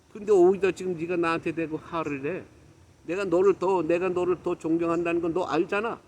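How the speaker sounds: heated, disappointed reproach; re-enacted indignant telling-off; retold burst of anger. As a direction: scold a close friend, pushing the voice. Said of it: "걔 화를 확 내버린 거예요".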